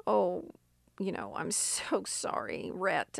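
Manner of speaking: soft, half-whispered near-tears imitation; quietly tearful plea, lightly imitated; almost crying. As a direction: mimic a woman on the verge of crying, hushed. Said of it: "just kind of almost crying".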